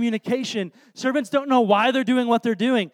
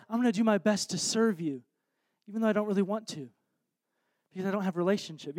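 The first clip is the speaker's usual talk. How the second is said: soft, quick, trailing-off reluctant promise; mumbled vow losing conviction as it goes; half-hearted pledge; 6 dB quieter, faster than usual. Acted. Churchgoer making a dutiful promise to Jesus, soft and half-hearted.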